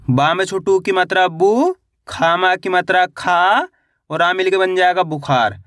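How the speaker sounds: बु and खा held long and rising, then बुखार blended; syllable-by-syllable spelling. Shown as a demonstration. Teacher showing beginners how to read बुखार, syllable by syllable. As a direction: sound out बुखार piece by piece. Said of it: "एक एक अक्षर का उच्चारण करके".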